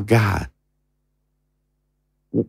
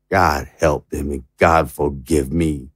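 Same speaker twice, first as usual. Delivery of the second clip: hushed prayer; 6 semitones lower, 5 dB quieter than usual. Acted. Defeated president's final prayer.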